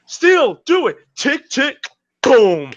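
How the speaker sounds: high excited mock callout; hyped-up quote. Friend cheering Steel on, high and excited. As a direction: hype him up to finish the move. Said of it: "'Cause it's like".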